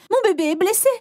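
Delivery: high, frantic mother crying for help; panicked shout. Acted. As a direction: scream for an ambulance. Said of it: "s'est mise à crier pour une ambulance".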